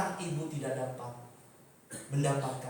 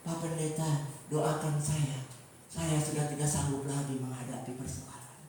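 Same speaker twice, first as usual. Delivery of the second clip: low, subdued plea for prayer; mock defeated pleading; 9 semitones lower, 7 dB quieter than usual. Preacher mimics empty Christian asking pastor for prayer, mock defeated. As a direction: act a churchgoer with no strength left.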